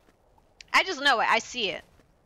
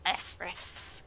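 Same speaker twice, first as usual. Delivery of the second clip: whispered; 7 dB quieter than usual. Real, not acted. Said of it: "Let's deal with ice rifts".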